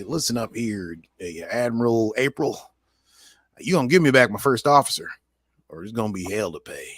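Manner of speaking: a light hint of a cowboy; playful cowboy voice, lightly done. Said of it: "hitch up his old, his britches and say".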